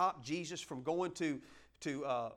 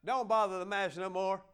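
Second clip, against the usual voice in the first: loud, higher tactless buddy breaking the news; blunt friend; 3 semitones higher, 6 dB louder than usual. Retold or imitated. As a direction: blurt the bad news like a careless bro. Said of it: "Jairus' friends".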